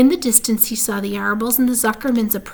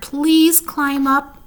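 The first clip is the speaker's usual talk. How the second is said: begging; 5 semitones higher, 5 dB louder, much slower than usual. A narrator's reading. Wilbur begging desperately.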